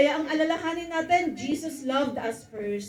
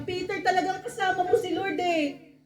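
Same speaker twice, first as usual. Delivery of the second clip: higher, laughing woman's voice; accusing woman; 5 semitones higher than usual. Acted. The woman telling Peter he was surely with the Lord. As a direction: needle him, half amused.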